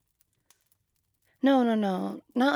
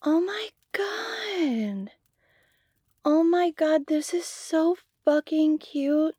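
high, slow, breaking whisper on the verge of tears; tearful whisper; 6 semitones higher, slower than usual. Acted. Friend unwraps a lost necklace's twin, tearful whisper. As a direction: choke it out, overwhelmed.

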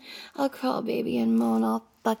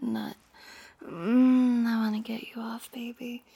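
whisper. Acted. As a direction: lean in and whisper the lines. Held breathy teasing whisper.

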